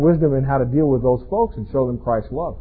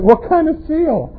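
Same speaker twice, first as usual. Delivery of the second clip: dad's dry question; 12 semitones higher, slower than usual. Retold or imitated. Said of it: "I said".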